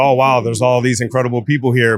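plain

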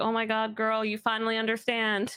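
normal talking voice

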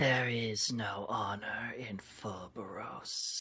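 hissing delivery throughout. A narrator voices a character refusing a plea to bury the dead; hissing. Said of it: "He sort of hisses and says".

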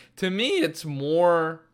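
voice cracking upward in pitch. Speaker explaining a view in conversation, voice cracking. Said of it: "Voice crack, sorry".

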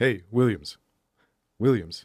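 very loud, macho tough-guy street voice. Imitating a tough kid calling out to williams, in a macho kid voice. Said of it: "he talked like this".

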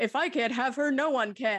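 slow, mid-century radio announcer delivery. Recapping what Matt said to her, a speaker quotes him in a mid-century radio announcer voice. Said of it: "his mid-century radio announcer voice".

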